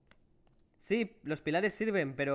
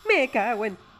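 high, loud cut-off curse; jump-scared shriek mid-swear; terrified scream; 7 semitones higher, 10 dB louder, slower than usual. Real, not acted. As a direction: scream as the monster jumps out.

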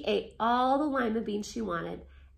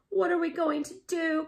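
crying out; 7 semitones higher than usual. Acted. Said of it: "cried Missus Cream".

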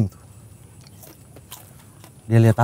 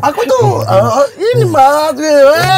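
higher, slow wavering voice; trembling voice; 9 semitones higher, 3 dB louder, slower than usual. Retold or imitated. Teasing friends about someone tearing up, trembling voice. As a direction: let the voice start to tremble, pitched up. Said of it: "Suara-suara bergetar, mulai nampak".

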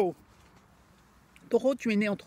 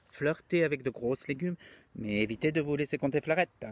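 put-on German accent, lower pitched; 3 semitones lower than usual. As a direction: drift into a mock German accent. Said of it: "il prend un accent allemand".

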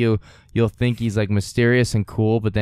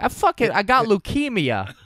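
sleazy pickup voice; 10 semitones higher than usual. Retold or imitated. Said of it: "He's like".

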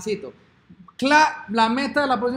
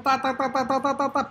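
loading hum; 3 semitones higher than usual. Pretend. Waiting for app to load.

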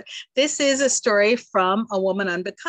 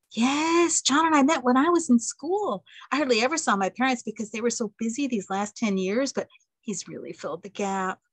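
put-on eager young wife; 5 semitones higher than usual. April answers aunt.

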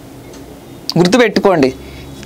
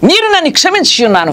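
voice of the Lord; 7 semitones higher than usual. Retold or imitated. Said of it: "నా ప్రభు మాట్లాడేవారు".

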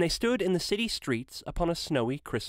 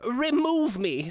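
higher, louder desperate cry; exclaimed; 8 semitones higher, 4 dB louder, slower than usual. A narrator's reading. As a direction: cry out slowly in anguish. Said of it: "Scrooge exclaimed".

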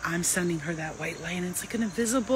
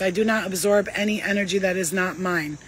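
steady, earnest prayer reading; reciting a prayer. Shown as a demonstration. Reading the empath prayer to viewers, earnest and steady. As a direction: read it like a vow you believe. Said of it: "that's an empath prayer".

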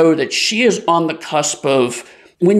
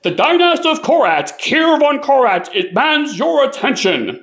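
royal herald; 10 semitones higher than usual. Acted. Herald cat proclaiming to the roadhouse, high and formal.

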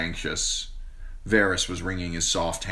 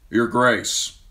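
knight; 4 semitones higher, 6 dB louder than usual. A narrator's reading. Knight announces arrival to queen.

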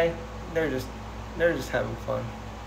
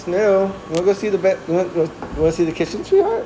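higher, sweet coaxing voice; coaxing pet talk; 5 semitones higher than usual. Real, not acted. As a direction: lure the cat along gently. Coaxing cat to explore.

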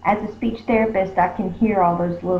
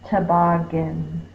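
slow blending. Shown as a demonstration. Teacher blends the sounds slowly.

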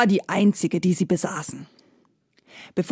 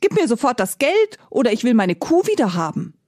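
indignant; 4 semitones higher, faster than usual. Acted. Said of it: "rief der Bauer empört".

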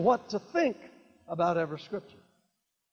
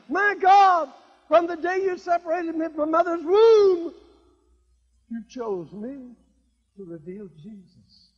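high loud cry fading to a hush; fervent prayer; 10 semitones higher, 9 dB louder than usual. Retold or imitated. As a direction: cry out to God, then soften. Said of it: "Paul's prayer acted".

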